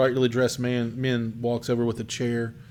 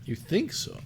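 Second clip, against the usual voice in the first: high, soft crone's query; crackly old crone; 5 semitones higher, 5 dB quieter than usual. Acted. Fortune teller doubts her visitor's answer, soft high crone. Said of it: "her voice crackles".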